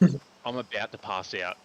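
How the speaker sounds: urgent warning. Retold or imitated. Telling Wendy he'll faint.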